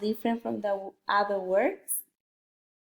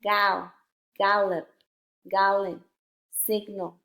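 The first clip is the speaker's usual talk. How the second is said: brisker word-list reading, each word in one go; a little faster. Shown as a demonstration. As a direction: read each word a bit faster, without splitting syllables. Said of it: "read the words a little bit faster".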